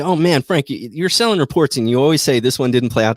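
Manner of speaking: complaining customer. Retold or imitated. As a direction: imitate a griping customer a little. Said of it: "And you say".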